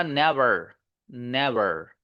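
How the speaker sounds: "नेवर" with a smooth unrolled final r; English R ending. Shown as a demonstration. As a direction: glide gently out of "नेवर". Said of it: "इसी से बना". ("नेवर" में नरम र)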